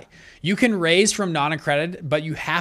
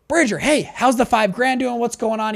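anxious caller; 6 semitones higher than usual. Retold or imitated. Buddy calling again, anxious.

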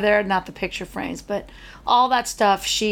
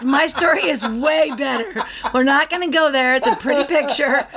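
playful protest; 5 semitones higher than usual. Real, not acted. Playfully refusing the grim story.

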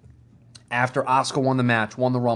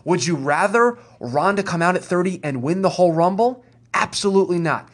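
raised, slowed-down rant at the fans; ranting yell. Real, not acted. Co-host rants at internet critics of Ronda, raised voice. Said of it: "and I'm gonna yell".

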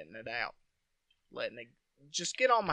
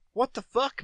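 retold disbelief; 10 semitones higher, 7 dB louder than usual. Sees holes in the box.

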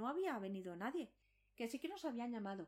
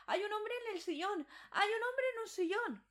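high, loud and urgent, almost a shriek; frightened cry; 10 semitones higher, 7 dB louder than usual. Acted. Sick mother crying out to her sons about the man in the chair, high and loud in panic. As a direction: blurt it out in panic, pointing at the chair.

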